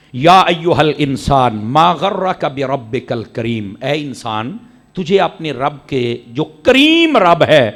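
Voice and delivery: slow, measured verse recitation; Quranic recitation. Acted. Preacher slowly recites the verse to his congregation. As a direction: let each word of the verse land slowly.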